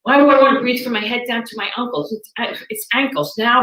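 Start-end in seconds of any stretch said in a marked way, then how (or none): 0.0-2.1 indignant disbelief. Retold or imitated. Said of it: "I'm like".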